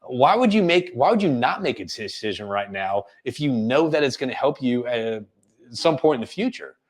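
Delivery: puzzled challenge; role-played confusion, probing gently; confused tone. Shown as a demonstration. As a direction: ask as if you can't follow their reasoning. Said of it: "the confusion tone that I'm doing".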